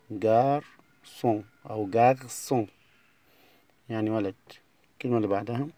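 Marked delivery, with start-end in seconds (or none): 0.1-2.7 garçon drawn out very slowly, gar-SON, twice; slow repeated model. Shown as a demonstration. Teacher repeats garçon slowly for pupils. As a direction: stretch garçon out syllable by syllable.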